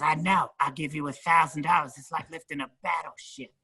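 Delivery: high conspiratorial put-on voice; imitating Ralphie. Ralphie offering a grand backstage, high sly voice. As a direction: pitch up and tempt him with the cash.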